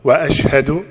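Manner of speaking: slow, carefully separated syllables; measured dictation for someone to repeat. Shown as a demonstration. Prompting a new convert to repeat, very slow. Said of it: "say it very slowly".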